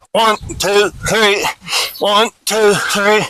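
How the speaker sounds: brisk push-up count, numbers close together; snappy drill count; quick cadence. Shown as a demonstration. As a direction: count the reps off quickly and evenly. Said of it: "pretty quick cadence on the push-ups".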